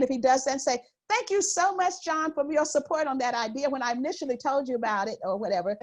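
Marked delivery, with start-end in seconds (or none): 1.1-5.2 kindly. Acted. Woman thanking a colleague who took her idea, kindly. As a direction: thank him kindly while reclaiming the credit. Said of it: "I've learned to kindly, uh, look at a man".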